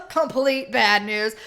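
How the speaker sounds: slow, drawn-out sarcastic echo; slowly mock the phrase back; mocking viewer. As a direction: mimic the viewer scoffing back. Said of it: "people are laughing 'cause you're like".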